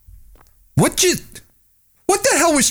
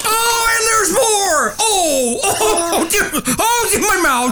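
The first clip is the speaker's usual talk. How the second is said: disgusted laugh-cry; 6 semitones higher than usual. Acted. Vomit lands on him.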